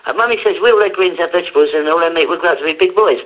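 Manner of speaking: a hint of a little kid reciting; four-year-old's advert line. Child actor reciting his nappy ad line, lightly voiced four-year-old. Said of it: "I was playing the four-year-old".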